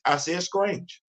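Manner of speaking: Strange in a drawn-out Southern country accent. Shown as a demonstration. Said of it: "I'm using my country accent".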